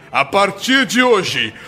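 solemn proclamation. Pretend. Mock knighting the driver.

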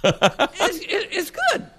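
high squeaky laughing; laughing sarcasm. Real, not acted. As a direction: laugh through the words sarcastically.

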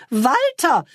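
put-on desperate young woman calling her lover; cry in distress. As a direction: call the name in real distress. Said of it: "rief sie in höchster Not".

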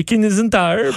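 "Canadian Tire" slurred into "kinezin taïeur"; quick mangled English. Real, not acted. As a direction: swallow the middle of "Canadian". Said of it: "je dis ça vite".

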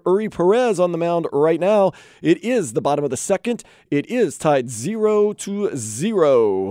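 radio sports update delivery; sports headline read. Real, not acted. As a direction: read out the scores like a radio host.

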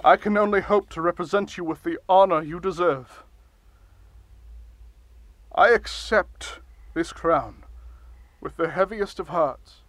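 grand, pompous speechmaking; blustery pompous mayor. Acted. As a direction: deliver it like a self-important ruler. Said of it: "Can you maybe not shout".

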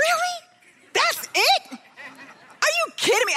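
high, disbelieving; can't believe what she heard; incredulous. Retold or imitated. Mom stunned by the father's answer, incredulous. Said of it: "And I was like".

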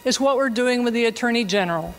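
faint voice far from the mic; quiet speech under loud hiss. Real, not acted. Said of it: "the hiss that's underneath the audio".

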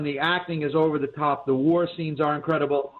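hiccuping while talking; words broken by hiccups. Real, not acted. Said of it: "excuse me if I'm hiccuping".

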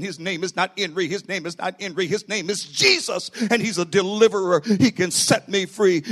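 preacher's retold cry, punched harder toward the end; retold yelling. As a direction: act out a man proclaiming down the hallways, building in force. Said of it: "and he started yelling".

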